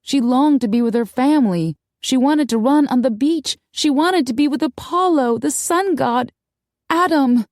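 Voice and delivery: high, impassioned narration; aching, urgent wish; desperate longing. A narrator's reading.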